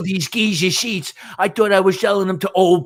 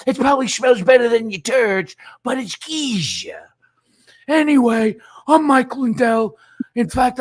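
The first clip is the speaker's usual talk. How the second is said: hammed-up pitchman, somewhat higher and slowed on the name; Mike Lindell impression; 3 semitones higher than usual. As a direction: sell it like a late-night infomercial host. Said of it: "let me see if I can get Mike Lindell in here".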